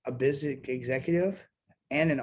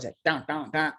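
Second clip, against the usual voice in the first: imitated guitar part. Telling interviewer about guitarist's overlay, imitated guitar part. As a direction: voice the overlay riff in short duns. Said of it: "He actually played the, uh, overlay".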